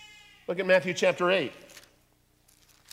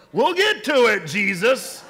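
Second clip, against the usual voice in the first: mock lazy waves; 7 semitones higher, 11 dB louder, slower than usual. Lazy waves answering Jesus.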